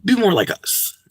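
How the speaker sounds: soft, high-pitched condescending request; mock white colonizer. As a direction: imitate a colonizer with a high, hushed hum first. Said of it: "white people went to the continent of Africa and said".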